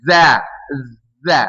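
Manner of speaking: Za with a buzzing z; wrong za. Shown as a demonstration. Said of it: "jadi Z".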